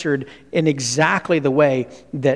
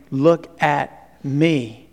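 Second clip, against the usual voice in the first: mock show-off; 2 semitones lower, much slower than usual. Mock Arioch bragging, drawn out.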